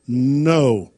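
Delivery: a stern NO, brows down. Retold or imitated. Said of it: "I simply lowered my voice an octave".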